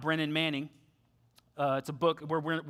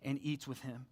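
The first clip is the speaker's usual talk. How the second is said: grumbling; 4 semitones lower, 9 dB quieter than usual. Retold or imitated. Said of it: "they grumble".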